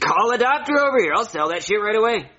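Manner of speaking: high-pitched, impulsive call; fired-up, can't-wait insistence; eager demand. Acted. Eagerly demands a kidney sale.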